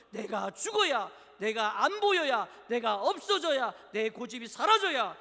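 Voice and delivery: loud, punched parallel phrases; emphatic preaching. Real, not acted. Preacher urging death of self, emphatic preaching. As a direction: drive each condition home.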